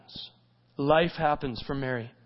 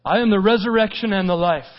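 raised, firm preaching voice; emphatic proclamation; 3 semitones higher, 3 dB louder than usual. Acted. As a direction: proclaim the verse with conviction. Preacher repeats the verse as proclamation.

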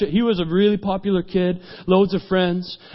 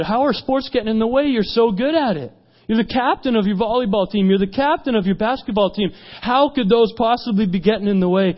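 incredulous questioning; 4 semitones higher than usual. Retold or imitated. Speaker questions youth's answer.

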